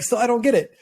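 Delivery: imitating a stumped spectator; baffled onlooker. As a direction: puzzle over it in disbelief. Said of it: "but you're like".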